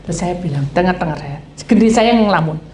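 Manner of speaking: usual speaking voice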